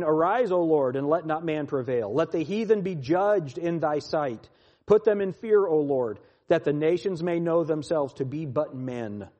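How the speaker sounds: emphatic psalm reading, key words punched; scripture reading. Acted. Preacher reads the psalm to his listeners, declaimed. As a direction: declaim the psalm with surges of force.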